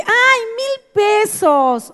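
very slow, high-pitched dismissive lilt; acted airy relief, long and sing-song; no big deal. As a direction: stretch it out high, as if it's nothing. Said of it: "¿sí entiendes el tono?".

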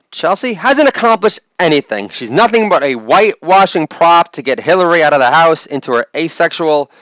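lightly voiced jealous columnist; jealous op-ed writer. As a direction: play a mildly envious writer sniping. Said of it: "impersonation of the, the jealous op-ed writer".

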